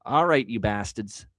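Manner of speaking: put-on drawn-out, slow Boston accent. Bettor addressing the Seattle team, in a Boston accent. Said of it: "said that with a Boston accent".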